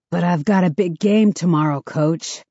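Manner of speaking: deadpan, flat delivery. Acted. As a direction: say it flatly, no energy. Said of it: "Mark says flatly".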